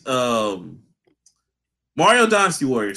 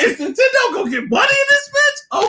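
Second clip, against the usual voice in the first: laughing shout. Real, not acted. Hyping up his friend about Nintendo, laughing shout. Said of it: "I was just like".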